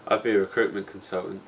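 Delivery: deadpan, with no enthusiasm; underwhelmed, low-key admission; unenthusiastic. Real, not acted. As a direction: state the dull job without any excitement. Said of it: "Did I inject that with, with the enthusiasm that it deserved".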